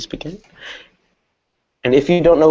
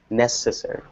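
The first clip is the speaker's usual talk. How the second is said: "Necessary" softer, stressed on NEC; stress on first syllable; 5 dB quieter than usual. Shown as a demonstration. Teacher repeating the example, "Necessary" stressed on NEC. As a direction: put the weight on the opening of "Necessary". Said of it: "it would be on the first syllable".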